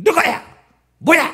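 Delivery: sharp, shrill, very high, biting snap. Retelling how the pastor's wife answered a dawn phone call, in a mock shrill, snappish voice. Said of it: "목소리가 아주 앵칼진 목소리".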